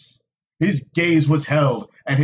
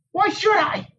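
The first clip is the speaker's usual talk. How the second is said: demanding. A narrator's reading. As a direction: throw the question back at him. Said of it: "Nynaeve demanded".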